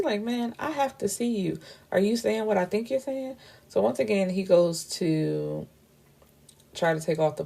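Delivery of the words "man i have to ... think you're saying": high-pitched, acted insistence; retold urgent plea. Man begging to see the woman behind his blindfold, high and urgent. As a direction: plead in a high, pressing voice.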